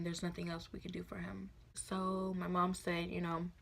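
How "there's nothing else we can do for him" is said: whispering the doctors' grim verdict; hushed whisper. Retold or imitated. Retelling the doctors' news about dad, whispered. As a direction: breathe it out, barely voiced.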